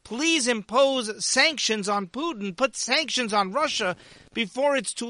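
slow, drawn-out imitated plea; Zelensky begging Biden for sanctions, slow mock plea; mock pleading. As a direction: plead slowly, a hint of desperation. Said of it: "is begging Biden".

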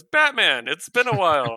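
loud, high hail across open air; Superman calling out. Retold or imitated. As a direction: call out to an old friend mid-flight. Superman hails Batman mid-flight.

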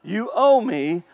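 lightly voiced older brother, drawn out and rising; mild mock grievance, stretched like a question; understated sulky demand, slow. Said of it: "That's what he's saying".

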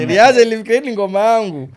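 high, loud disbelieving complaint; shocked complaint. Retold or imitated. Retells call to Luigi, upset.

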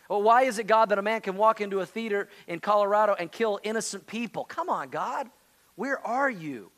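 pleading, frustrated questions thrown at God; a preacher voicing an exasperated believer railing at God; modern-day complaint to God. Preacher voicing a believer's exasperated complaint to God, pleading. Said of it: "it would sound like this today".

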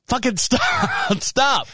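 high-pitched mock yell, no real volume; retold yell. Man yelling at neighbor kid chasing chickens, mock yell. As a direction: stretch it out in a high comic holler. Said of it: "I yelled at him".

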